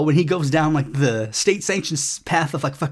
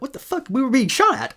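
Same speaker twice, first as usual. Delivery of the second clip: high startled yelp of alarm, much higher; shocked outcry; 9 semitones higher than usual. Retold or imitated. Diplomats shocked at being shot at, high alarmed yelp. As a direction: squeal it like you just heard bullets. Diplomats panicking under gunfire.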